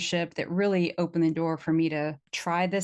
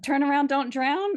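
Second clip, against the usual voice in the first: "Turn around, don't drown" said louder with a lift on "drown"; emphatic slogan; 8 semitones higher, 3 dB louder than usual. Retold or imitated. To the host, proudly reciting the safety slogan, louder. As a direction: belt the slogan out with a rising finish. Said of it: "I said".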